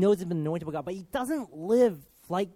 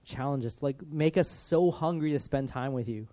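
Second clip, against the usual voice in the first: lower-pitched, heartfelt praying with pauses; earnest prayer; 3 semitones lower than usual. Real, not acted. Preacher praying to God for the congregation, earnest prayer. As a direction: pray aloud, settling lower as it goes.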